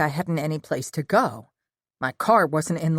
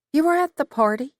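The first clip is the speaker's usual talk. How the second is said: sharply higher, louder, caught off guard; surprised question; 11 semitones higher, 4 dB louder, faster than usual. A narrator's reading. Lila startled to learn Dean was at the party, surprised. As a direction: blurt it out in disbelief.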